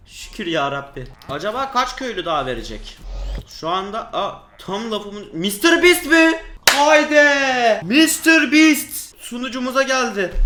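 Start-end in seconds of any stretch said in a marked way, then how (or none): 5.3-10.3 high, loud, slow thrilled cry; excited shout. Real, not acted. Player spots a Mister Beast villager, loud excited shout. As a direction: announce it like a big surprise.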